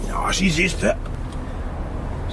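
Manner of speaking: slow, unvoiced murmur; weary whisper. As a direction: let it out almost under your breath. Rebus answers softly, wearily.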